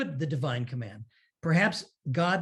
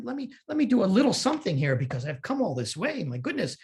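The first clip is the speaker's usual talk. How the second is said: raised pitch, mock indignant protest; upset Abraham; 5 semitones higher than usual. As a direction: play Abraham griping that the trip was wasted, higher and whining. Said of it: "Abraham is very upset".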